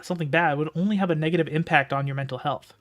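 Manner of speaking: steady storytelling read; story narration. A narrator's reading. Reads the novel aloud.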